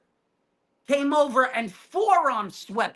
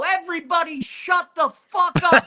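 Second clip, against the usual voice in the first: mock shout; 3 semitones higher, 3 dB louder than usual. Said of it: "I grab the mic and I go".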